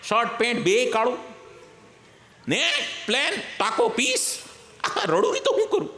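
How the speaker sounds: high, whiny crow complaining through laughter; wailing crow. Acted. Crow wails to the saint about its black colour, high and whiny. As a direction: wail like a crow sorry for itself.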